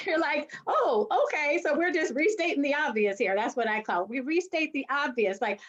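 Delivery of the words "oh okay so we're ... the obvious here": mock realization. Woman answering men who restate her point, mock realization. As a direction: act out pointed, put-on understanding. Acts reply to being restated.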